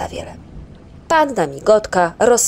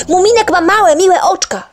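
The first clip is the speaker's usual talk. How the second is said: loud, higher screech; yell; 13 semitones higher, 8 dB louder than usual. Acted. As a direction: yell at the stranger. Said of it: "wrzasnął Ryjek".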